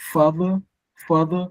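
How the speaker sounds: father with prominent FA; first syllable stressed. Shown as a demonstration. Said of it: "the first syllable is stressed".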